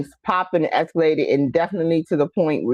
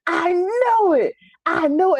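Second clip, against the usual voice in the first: dad in the kitchen; 12 semitones higher than usual. Retold or imitated. Mimicking dad calling from the kitchen, high and knowing. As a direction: sing out a smug I know it. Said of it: "he's like".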